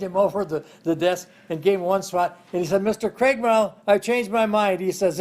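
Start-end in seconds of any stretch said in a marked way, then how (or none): 2.8-4.8 pitched up and louder, hurried begging; mock panicked plea. Boy to the superintendent after one swat, panicked plea. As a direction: beg to get out of the second swat.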